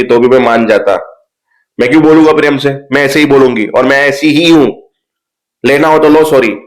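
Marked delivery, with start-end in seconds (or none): 1.8-6.6 defiant retort. Retold or imitated. Acted quarrel, refusing to apologise nicely.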